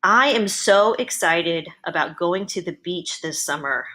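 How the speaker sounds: measured dictation into the microphone; dictating. Shown as a demonstration. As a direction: read it out clearly for voice typing. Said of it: "I'm gonna try to do the same sentences".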